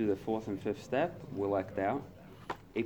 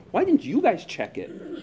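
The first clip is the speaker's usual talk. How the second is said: higher, louder, slow accusation; indignant complaint, pitched up and loud; blaming outburst; 10 semitones higher, 6 dB louder than usual. Retold or imitated. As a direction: snap at the guys for not checking. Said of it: "That's all going on in my head".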